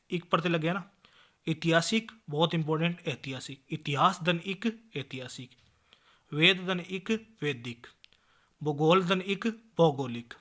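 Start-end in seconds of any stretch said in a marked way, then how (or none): 3.7-4.9 slow breakdown. Shown as a demonstration. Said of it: "spelling out a word's parts". 6.3-7.4 वेद धन इक drawn out slowly; slow breakdown. Shown as a demonstration. Teacher spelling out a word for the class, slowly. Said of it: "spelling out a word's parts".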